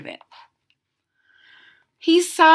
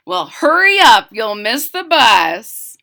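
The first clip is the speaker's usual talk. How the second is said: hurrying mother; 7 dB louder than usual. Acted.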